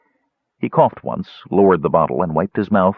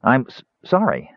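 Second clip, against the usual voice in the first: high, stammered sorry; flustered apology; 5 semitones higher than usual. Acted. Kender apologising to Caramon, flustered stammer. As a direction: stumble over the apology, higher-voiced. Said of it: "Tass flushed".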